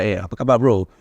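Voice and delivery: casual Malaysian Malay greeting; Malaysian Malay accent. Shown as a demonstration. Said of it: "I can speak Malaysia".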